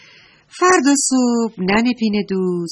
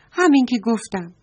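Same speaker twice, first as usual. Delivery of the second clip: mildly insistent storybook bully; a touch of a raised voice, higher; 5 semitones higher than usual. A narrator's reading. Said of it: "صداشو بلند کرد". (کمی با صدای بلند)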